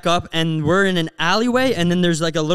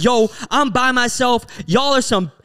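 mock screaming; 5 semitones higher than usual. Podcaster imitates Austin going off at his group, mock screaming. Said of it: "starts going off, like, screaming".

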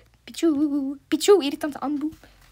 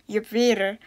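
Flemish; 3 semitones lower than usual. Shown as a demonstration. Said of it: "in België zeggen we".

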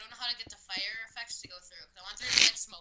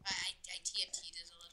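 whisper; 4 semitones lower, 6 dB quieter than usual. Real, not acted. Whispered exchange.

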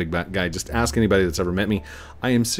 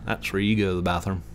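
hillbilly talk. Shown as a demonstration. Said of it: "I was raised hillbilly".

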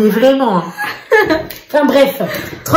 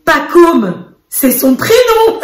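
put-on little boy voice. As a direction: plead like a toddler. Mother voicing the son explaining. (petite voix d'enfant qui insiste)

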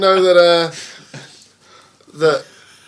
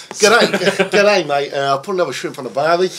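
hammed-up Aussie accent; Australian accent; 4 semitones higher than usual. Shown as a demonstration. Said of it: "gonna do an Australian voice".

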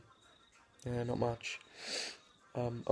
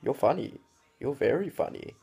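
sarcastic mockery; 2 semitones higher than usual. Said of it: "I reply with".

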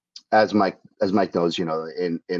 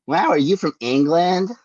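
mock-amazed Midwesterner asking, pitched up; surprised question; 9 semitones higher, 4 dB louder than usual. Midwesterner quizzing a New Yorker about England, surprised. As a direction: imitate someone wide-eyed and curious. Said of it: "some people ask me if I was from England".

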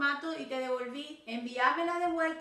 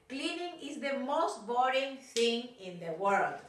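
slow demo; slower than usual. Shown as a demonstration. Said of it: "puede ser la frase".

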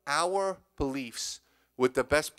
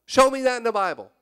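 preacher's challenge; 7 semitones higher, 5 dB louder than usual. Real, not acted.

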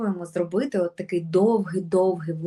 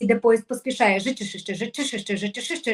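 Іде поїзд, поспішає taken faster with the train speeding up; 2 semitones higher, faster than usual. Shown as a demonstration. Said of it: "прискорюємо наш поїзд".

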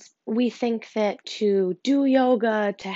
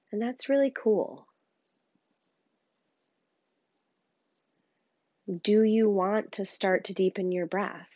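calm meditation guide with long pauses; unhurried, understated grounding voice; guided meditation. Real, not acted. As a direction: gently guide them inward, leaving space between phrases.

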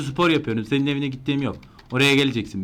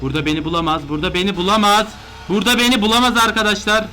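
building bravado; 5 semitones higher, 4 dB louder than usual. Real, not acted. Hiding, growing confident.

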